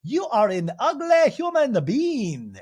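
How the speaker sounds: high, drawn-out, hammed-up put-down; overdone reality-show outrage; mock haughty insult. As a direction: stretch every word in a loud, swooping impression. Retold insult in cast argument.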